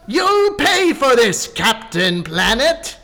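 mock menace in a cartoon voice; hammed-up cartoon villain. Villain line inside the theme.

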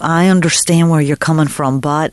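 low, slow put-on Southern drawl; dropped-voice attempt at a Charleston drawl. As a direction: lay on a hammy Southern belle accent. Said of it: "do they talk with the drawl".

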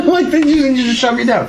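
high voice through laughter; laughing. Real, not acted. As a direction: talk while laughing hard. Laughing at Origi's streak.

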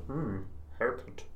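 Mister Bean. Retold or imitated. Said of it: "say a thing like".

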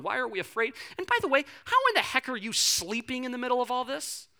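high-pitched, incredulous protest; mock freaking out. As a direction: fire back as a rattled disciple. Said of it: "You're freaking out".

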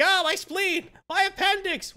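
high, hammed-up cry of pain; Deadpool. Impaled mercenary lamenting his organs, high mock wail. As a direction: wail comically about your wounds. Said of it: "typical Deadpool comments".

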